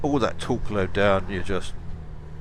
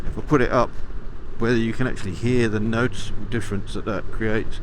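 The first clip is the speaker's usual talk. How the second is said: inside a helmet. Real, not acted. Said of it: "You can probably hear not a lot of wind noise on my helmet".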